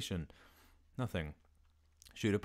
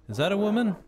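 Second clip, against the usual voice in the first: mock high-pitched voice; 12 semitones higher, 10 dB louder, faster than usual. Repeating a joke line.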